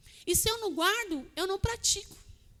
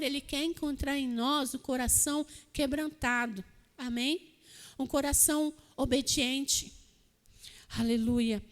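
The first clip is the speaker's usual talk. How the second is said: ordinary talk, nothing marked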